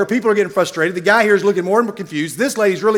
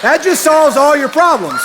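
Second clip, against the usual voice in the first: laughing mimic; 5 semitones higher than usual. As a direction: tease with the punchline. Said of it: "I hear her say".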